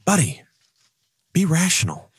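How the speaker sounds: a hint of a kindly angel on the shoulder. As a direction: gently talk him down, calm and reasonable. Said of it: "the angel's on the other side saying".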